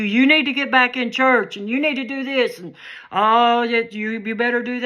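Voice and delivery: pushy mock lecture; mock scolding. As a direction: lightly act out someone telling you off. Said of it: "being mean to you".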